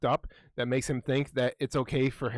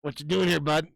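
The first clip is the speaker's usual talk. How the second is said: mock friendly greeting; 4 semitones higher, 4 dB louder than usual.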